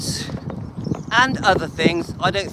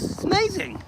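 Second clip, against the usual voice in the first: excited squeal; 13 semitones higher, 4 dB quieter than usual. Real, not acted. Delighted at walking distance.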